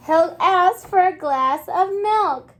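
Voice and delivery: storybook excitement; excited reading. Acted. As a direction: gasp then read with eagerness. Reading story after gasp.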